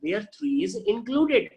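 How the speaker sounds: very slow, stretched model reading; teacher modelling phrasing for students. Shown as a demonstration. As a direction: say it slowly so students copy. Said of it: "आप बोलेंगे".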